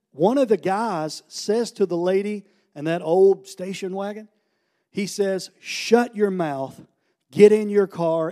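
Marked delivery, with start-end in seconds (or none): 5.6-8.3 slow, punched-out mock command; retold angry order. One of the guys to the lady, retold angry order. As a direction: imitate a man ordering someone off, mildly angry.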